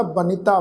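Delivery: ਬਨਿਤਾ as banita, short i after n; three syllables in ਬਨਿਤਾ, ba-ni-taa; dental n with sihari. Shown as a demonstration. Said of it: "ਨੰਨੇ ਨੂੰ ਸਿਹਾਰੀ ਦਾ ਪਾਠ".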